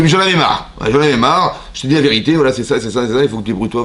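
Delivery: imitation énervée, plus haut et plus fort; énervé. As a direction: rejoue le mari à bout qui vide son sac. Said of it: "et tu t'es énervé". (colère jouée par le rabbin)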